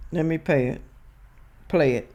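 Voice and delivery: tripping on words without teeth; no dentures. Real, not acted. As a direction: toothless slip of the tongue. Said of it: "Look like I can't talk without my damn teeth in".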